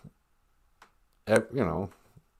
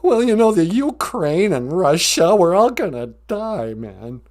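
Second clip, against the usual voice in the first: higher-pitched, fretful lion caller; scared Cowardly Lion; 8 semitones higher, 5 dB louder than usual. Acted. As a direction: predict doom as a rattled lion. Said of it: "Why are you so scared?".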